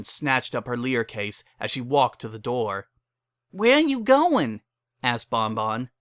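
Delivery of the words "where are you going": very high, loud, alarmed call; calling after. Acted. Bon Bon calling after leaving Lyra, loud. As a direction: call out as she leaves.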